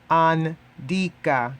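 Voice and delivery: andika said slowly and clearly, an-DI-ka; slow Swahili model word. Shown as a demonstration. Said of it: "Next is".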